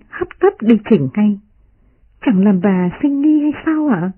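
a hint of a maid urging caution; gentle maid pleading. Maid Tập Nhân voiced.

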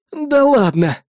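high, incredulous exclamation; disbelief. Acted. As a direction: refuse to believe it. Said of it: "не поверил сержант".

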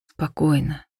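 low, hushed and reassuring; soothing whisper. A narrator's reading. Theo calming the woman as he caresses her, in a soft whisper. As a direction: soothe softly under the breath. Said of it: "прошептал Тео".

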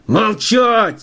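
high, savage bellow of rage; wild roar. A narrator's reading. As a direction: roar it like a man losing control. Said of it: "заорал он диким голосом".

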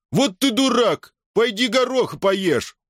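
высокий, растянутый издевательский возглас; обругай спорщика высоко и медленно; насмешливая перебранка. Acted. Перебранка в толпе. (насмешливо, с издёвкой)

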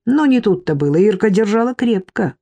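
ordinary delivery, nothing marked

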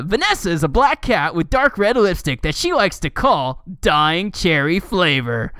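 lilting read-aloud voice; mock-dramatic article reading. Reading a fan wiki to a co-host, lightly mock-dramatic.

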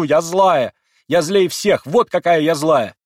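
high, very loud defiant cry; defiant shout. A narrator's reading. Girl proclaiming her own wickedness, loud defiant shout. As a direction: hurl it out at the top of the voice.

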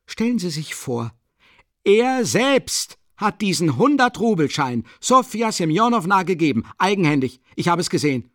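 high, loud outraged insistence. Acted. Witness insists before everyone he saw it, outraged. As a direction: fling each phrase, voice cracking upward. Heated accusation scene.

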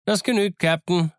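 high, merry pirate shout; cheerful call. A narrator's reading. Silver accepts the captain's word, calling cheerfully. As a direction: sing out gladly in a high voice. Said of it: "rief Long John fröhlich".

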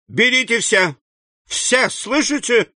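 high, desperate cry of a ruined banker; exclaiming. A narrator's reading. Banker Danglar cries out to the bandit chief, high and desperate. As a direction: fling the words out in despair. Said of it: "воскликнул Данглар".

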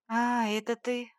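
slow, let-down exhale of the words; a touch of disappointment; disappointed sigh. Acted. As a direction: sound deflated it is only her. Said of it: "Разочарованно выдохнула".

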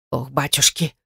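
breathed out low and soft; exhaled gasp. Acted. Old neighbour breathes out in dismay at the news. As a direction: sigh the words out in dismay. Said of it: "выдохнула она".

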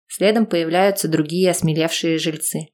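ordinary delivery, nothing marked

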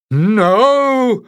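high, loud, piercing no; furious cry. A narrator's reading. The piper crying out against Jasmine, high furious shout. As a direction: shriek it out in outrage.

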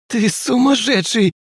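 high, slow rasping ghost voice; hoarse ghost rasp. A narrator's reading. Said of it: "прохрипел Юнг".

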